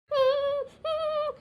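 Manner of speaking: high, drawn-out whimpering hums; acted whimper. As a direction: whimper as if crying. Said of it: "ಅಳ್ತಾ ಇದ್ದೀರಾ?".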